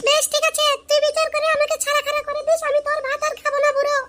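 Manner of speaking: put-on tearful whine; sulky, weepy threat to leave; whiny nasal crying. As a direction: whine it through nasal sobs. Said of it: "এখন নাকি কান্না কাঁদছিস কেন রে".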